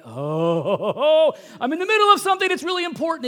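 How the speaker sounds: giggling dodge of a parent's call; mock laughing excuse.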